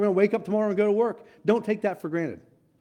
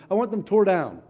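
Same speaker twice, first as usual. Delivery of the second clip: louder, emphatic demand with stress on tore; forceful preacher command; firm command; 2 semitones higher, 4 dB louder than usual. Acted. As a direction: hammer the order home. God's command, then echoed.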